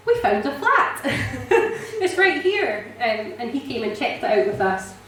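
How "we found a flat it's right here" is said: high, laughing and thrilled; giddy with a slow laughing finish; laughing news. Retold or imitated. Telling the pastor they found a flat, laughing high.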